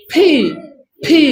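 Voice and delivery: ফি as a puffed "pee" from closed lips; P with both lips. Shown as a demonstration. Teacher showing the lips for P, aspirated P. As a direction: burst both lips open on ফি. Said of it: "এদের দুইটা ঠোঁট এক জায়গায় করলাম".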